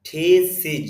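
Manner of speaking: থিসিস as "tee-siz"; careful two-part থিসিস, i in both syllables; corrected pronunciation. Shown as a demonstration. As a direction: model থিসিস with a long first syllable and "-siz" ending. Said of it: "সিজ হবে এখানে এটা".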